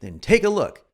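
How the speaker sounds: a lightly pushed TV infomercial pitch; infomercial read. Shown as a demonstration. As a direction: sell it like a late-night infomercial host. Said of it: "this is in an infomercial vein".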